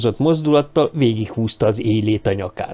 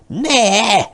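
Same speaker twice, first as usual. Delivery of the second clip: loud, high shout of No; 10 semitones higher, 4 dB louder than usual. Acted. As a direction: yell it in alarm. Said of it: "ordította Karahan".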